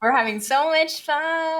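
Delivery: flat sarcastic deadpan, slow; monotone. Pretend. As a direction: say it with zero enthusiasm, slowly. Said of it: "in the most monotone voice ever".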